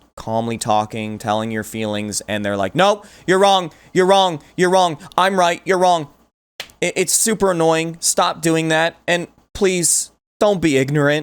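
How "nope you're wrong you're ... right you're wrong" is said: mock yelling, higher pitch. Imitating people who talk over calm speakers: imitating someone yelling over you. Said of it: "people that will yell over you".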